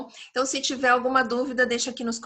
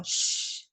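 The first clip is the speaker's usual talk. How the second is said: a soft whispered shh; shushing sound; 3 dB quieter than usual. Shown as a demonstration. Teacher showing students how to shush, whispered shh. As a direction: hush someone with a quiet shh. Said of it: "Shush é o ato de fazer isso aqui".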